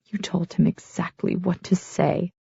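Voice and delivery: soft hushed accusation; whisper. A narrator's reading. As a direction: breathe it out quietly. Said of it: "I whisper".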